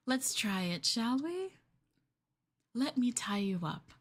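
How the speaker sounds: whispered invitation; coaxing whisper. Acted. A girlfriend luring her partner in, whispered. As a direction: whisper it to lure them in.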